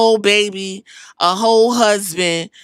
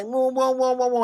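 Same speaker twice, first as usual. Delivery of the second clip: mock wailing, kept small; imitated fake crying; 3 semitones higher, 4 dB quieter than usual. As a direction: retell his phony boo-hooing. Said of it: "he start fake crying or whatever".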